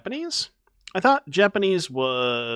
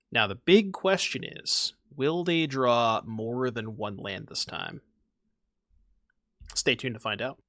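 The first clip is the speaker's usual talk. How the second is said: slow, suspense-building show host; mock announcer teaser; slower than usual. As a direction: tease the next episode, drawn out. Mock show teaser before next game.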